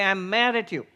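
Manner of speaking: demonstrating how the mind claims anger, rising to a mock shout. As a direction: act out the angry self, building to a loud slow I am angry. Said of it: "No, I say".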